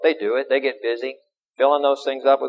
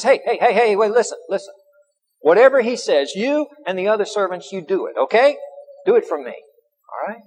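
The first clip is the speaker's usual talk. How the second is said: eager, pressing mother; urgent pleading; 4 semitones higher than usual. Retold or imitated. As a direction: grab the servant's attention. Mary stops servant urgently.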